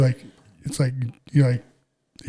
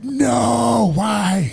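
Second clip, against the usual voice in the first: startled no; 8 semitones higher than usual. Retold or imitated. To the coworker who spilled his schedule, a startled high no. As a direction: jump at the question, caught off guard. Fan asks if he works Saturday.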